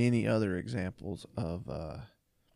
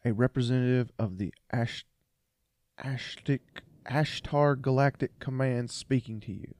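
put-on British accent; 4 dB louder than usual. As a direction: read it like a pompous British spaceman. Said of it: "In a British accent".

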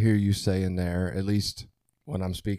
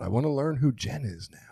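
hushed realization; 4 semitones higher than usual. Retold or imitated. Retold realization, hushed to himself.

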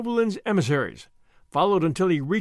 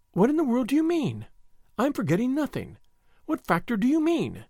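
rising exasperation, pitched up; impatient; 6 semitones higher than usual. A narrator's reading. To Sir Andrew, growing exasperated and higher. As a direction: Marguerite pressing Sir Andrew, mounting impatience. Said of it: "with more impatience".

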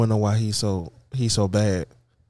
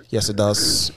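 whisper; 3 semitones lower, slower than usual. Pretend. Whispered aside in the bit.

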